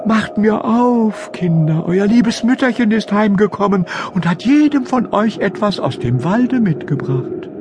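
put-on wolf luring the kids a third time; sweet-talking wolf. (hohe, lockende, verstellte Wolfsstimme)

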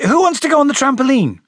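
high, bright call to a group. Acted. Harry distracting everyone with the trampoline, high eager call. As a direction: call it across the garden. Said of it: "and then he called".

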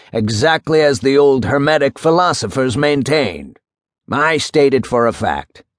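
a hint of a pronouncing old judge; lightly voiced old judge. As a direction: lightly play an old judge stating his philosophy. Judge pronounces his philosophy.

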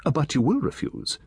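put-on a chatty old gentleman relishing his tale; Satterthwaite.

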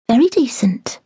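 "Very decent" breathed in a whisper; a whispered, doubtful echo of "Very decent". Acted. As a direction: murmur "Very decent" under the breath, voiceless. Echoed in a whisper.

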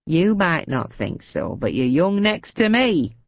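put-on slow, kindly old woman; fond elderly compliment; old lady voice.

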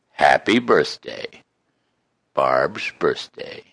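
measured, rhythmic reading of a rhyming poem; poem recitation. Acted. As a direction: recite it like a heartfelt greeting card. Recites birthday poem to wife.

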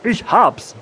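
high-pitched burst of an idea; excited frog cry. A narrator's reading. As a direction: call out excitedly as a little frog. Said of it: "rief er". (aufgeregter, hoher Froschruf)

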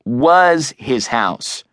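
"Was" drawn out slowly and stressed; pointed correction stretching "Was"; correcting. A narrator's reading. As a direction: lean long on "Was" to correct the friend. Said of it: "Adam corrected".

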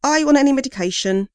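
bored monotone official, fast; monotone custody sergeant. Acted. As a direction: rattle it off in a monotone. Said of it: "in her monotone".

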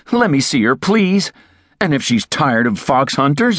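begging. A narrator's reading. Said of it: "he begged".

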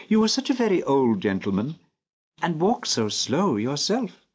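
put-on a child pleading with an old man; earnest little girl. A narrator's reading. Narrator voices the little girl.

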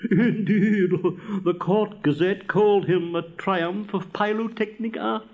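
self-important storytelling rocket; pompous rocket. Acted. Rocket bragging about his father's splendid performance, pompous. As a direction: boast grandly, savouring the praise.

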